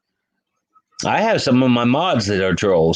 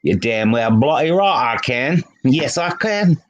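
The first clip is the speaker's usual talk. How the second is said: cockney attempt; 3 semitones higher than usual. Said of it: "I can talk a little Cockney English".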